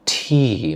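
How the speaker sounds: "T" said softly, tongue pressed gently; soft T sound. Shown as a demonstration. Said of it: "gently press your tongue".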